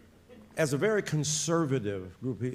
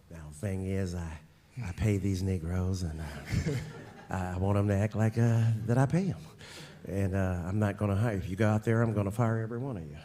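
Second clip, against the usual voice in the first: imitating Jerry Jones with a Texan accent, lower; 4 semitones lower than usual. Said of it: "I was killing that accent right there".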